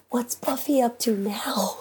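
slow whisper, peeking in; sneaky whisper. Acted. Peeking into the break room, a sneaky whisper. Sneaking a peek, trying to be subtle.

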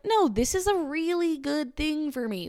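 mock positive self-talk; self-convincing. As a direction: imitate someone talking themselves into it. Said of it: "if you ever have to be like".

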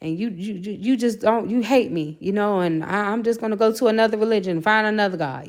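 retold angry rant. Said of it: "I told him I was pissed".

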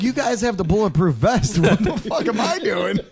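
high, laughing disbelief; incredulous laugh. Retold or imitated. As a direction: laugh at the absurdity. Laughing at the cops.

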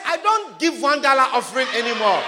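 declare it. Shown as a demonstration. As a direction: proclaim it boldly.

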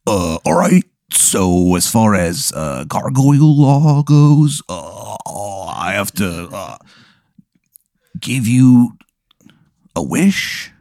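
lightly voiced gargoyle. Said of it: "So he goes".

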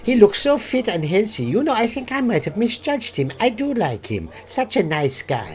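put-on German accent; mock-German praise. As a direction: play an approving German student. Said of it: "Hans is German".

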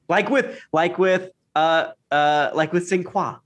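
high, rising excited stammer; excited fumbling. Real, not acted. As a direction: grasp for the name eagerly. Excited searching for name.

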